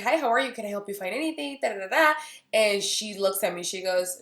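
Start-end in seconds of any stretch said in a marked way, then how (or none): 0.0-2.1 sing-song sales clerk welcome; chirpy shop greeting. Retold or imitated. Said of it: "I was like".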